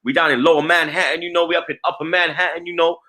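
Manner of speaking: lightly put-on New York accent; New Yorker accent. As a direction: play at being a New York local. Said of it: "talking like a New Yorker".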